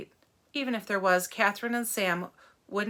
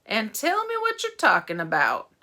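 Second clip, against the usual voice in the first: slow drawl; 5 dB louder than usual. Acted. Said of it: "in a slow drawl".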